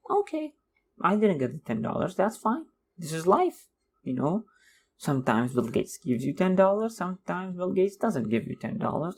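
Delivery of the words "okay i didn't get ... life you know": breezy acceptance. Retold or imitated. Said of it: "I'd just say".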